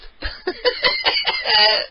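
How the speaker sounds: short high shriek of laughter; high shrieking giggle. Real, not acted. Caller shrieks with laughter, still amused by the call. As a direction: let out a squeal of giggles.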